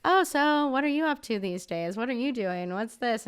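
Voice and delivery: mock friendly small talk. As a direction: imitate sudden off-camera friendliness. Mock small talk once cameras cut.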